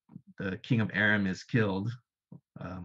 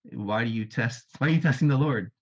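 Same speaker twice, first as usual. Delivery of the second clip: rising, louder rebuke; upset; 2 semitones higher, 5 dB louder than usual. Retold or imitated. Isaiah rebuking Ahaz, upset and loudly raised. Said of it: "Isaiah gets upset with it".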